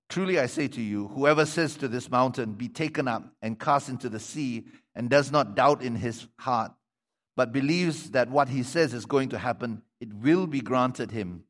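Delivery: measured, projected Bible reading; scripture reading. Acted. Preacher reading the colt story to the congregation, projected reading voice. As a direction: read the passage out clearly to the congregation.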